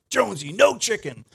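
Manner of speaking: high loud yell at Jonesy; calling the dog. Shown as a demonstration. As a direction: call off the dog sharply. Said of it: "I'm gonna do this loud".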